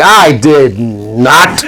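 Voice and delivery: very slow, drawn-out protest; mock-indignant, long-drawn denial. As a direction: stretch every word of the denial out.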